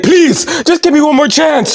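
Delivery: high-pitched mock pleading; Cody Rhodes. Failed champion begging his boss, mock pleading. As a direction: beg in a high, pathetic voice. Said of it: "So Cody's like".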